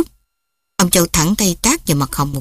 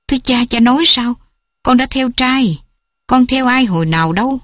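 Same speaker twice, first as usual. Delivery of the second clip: shocked daughter; 4 semitones higher than usual. Acted.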